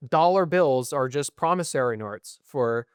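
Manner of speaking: slow, slipping into an Australian accent; a slight Australian accent on these words. Real, not acted. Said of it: "or I said that in an Australian accent".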